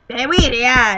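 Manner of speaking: loud gruff Canadian woodsman voice; gruff booming lumberjack. Retold or imitated. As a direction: boom it out like a lumberjack. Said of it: "I sound like a lumberjack".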